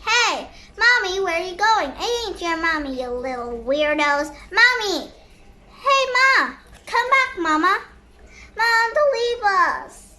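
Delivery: calling after mom. Acted. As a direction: cry out for mom to come back. Children calling after fleeing mom.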